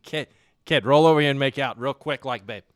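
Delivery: put-on Boston accent. Pretend husband waking his wife, mock Boston accent. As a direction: coax in hammed-up Boston. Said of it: "wife up in the Boston accent".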